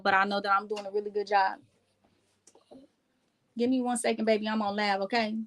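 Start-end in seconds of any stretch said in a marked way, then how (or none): 3.5-5.3 softer, dropping to a whisper on "okay"; hushed aside. Real, not acted. Telling her little cousin she's live, hushed and softer. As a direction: murmur it off-mic to the little one. Aside to child during livestream.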